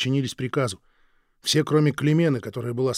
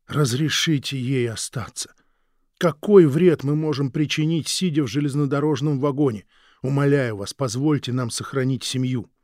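pleading; 2 semitones higher, 5 dB louder than usual. Acted. Husband begs on knees.

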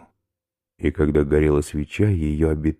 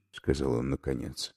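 normal talking voice

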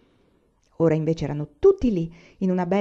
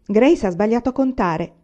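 higher and quick, eagerly telling on her sister; excited girl; 6 semitones higher, 4 dB louder than usual. Acted. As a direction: rush it out, pleased to have found a mistake. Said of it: "esclamò Carrie". (bambina eccitata, voce più acuta e veloce)

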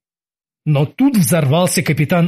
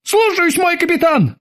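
very high, obedient crew voice; mock roar in unison; 13 semitones higher than usual. A narrator's reading. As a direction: acknowledge the order in a high pitch. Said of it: "в две глотки проревели".

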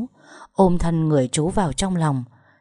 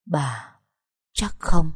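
hoarse question; much slower than usual. A narrator's reading. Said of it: "giọng đục ngầu hỏi dì Tú".

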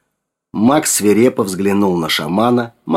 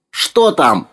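raised, mildly falsetto call; rattling falsetto cry; 6 semitones higher than usual. A narrator's reading. Old man anxiously calls to Sergei by the lens, mild falsetto cry. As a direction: call out higher, with a touch of falsetto. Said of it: "выкрикнул Макс дребезжащим фальцетом".

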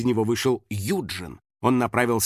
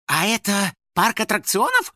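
curious; 8 semitones higher, 3 dB louder than usual. A narrator's reading. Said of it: "уточнил он".

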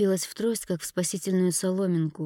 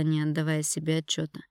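ordinary delivery

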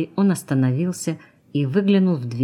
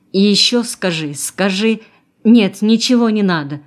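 raised, higher voice calling after someone; urgent narrated call, higher pitched; 5 semitones higher, 6 dB louder than usual. A narrator's reading. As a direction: call after a departing truck, breaking off to take it back. Running beside departing truck, calling out.

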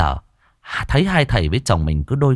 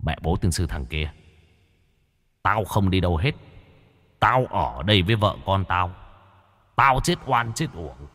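put-on low, rumbling voice of a possessed boy; deep booming ghost voice; 3 semitones lower, 5 dB quieter than usual. A narrator's reading. Possessed boy cursing the exorcists in a low ghost voice. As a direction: growl it out like a vengeful ghost through the child. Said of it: "nó rũ xuống cất giọng ồm ồm".

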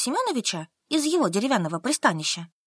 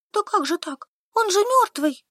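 put-on higher, stubborn young woman; Solka answering; 10 semitones higher than usual. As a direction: answer flatly, digging in. Solka protests. (выше, упрямая Солька)

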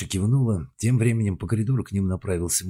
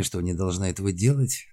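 usual speaking voice

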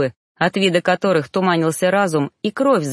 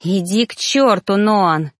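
angry hiss; 2 semitones higher, 3 dB louder, slower than usual. Acted. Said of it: "злобное шипение".

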